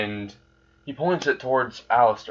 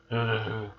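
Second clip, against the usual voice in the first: soft, shivering exhale; shuddering sigh; 6 dB quieter than usual. Acted. Character recalling a nightmare, soft shuddering sigh. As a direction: let out a quiet shudder.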